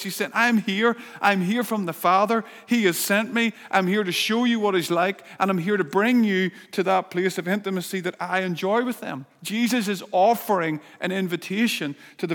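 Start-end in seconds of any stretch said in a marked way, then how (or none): 0.3-9.2 crying out. Acted. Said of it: "Feel the emotion in his voice".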